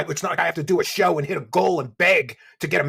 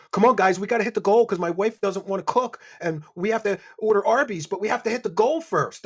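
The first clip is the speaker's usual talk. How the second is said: lightly voiced pleading streamer, pitched up; mock a begging streamer; mocking imitation; 4 semitones higher than usual. Commentator mimics a streamer begging for donations, mildly mocking. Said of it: "this clown was like".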